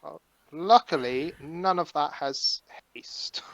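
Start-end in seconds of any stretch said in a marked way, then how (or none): 1.4-3.4 whispering. Real, not acted. Quiet aside during card game.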